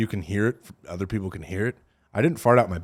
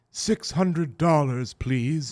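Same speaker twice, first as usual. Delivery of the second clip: mock bill collector; 4 semitones higher, much slower than usual. Billing office cheerfully demanding payment.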